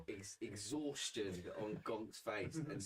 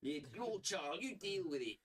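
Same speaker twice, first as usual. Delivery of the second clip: higher, offhand brush-off; dismissive character voice; 10 semitones higher than usual. Acted. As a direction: shrug it off onto them. Character passes the buck.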